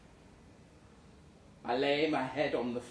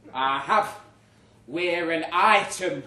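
defensive insistence; 2 semitones higher, 7 dB louder than usual. Retold or imitated. Defensive claim.

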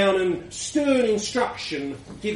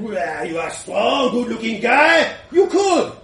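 mock shout; 2 semitones higher, 4 dB louder than usual. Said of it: "And I said".

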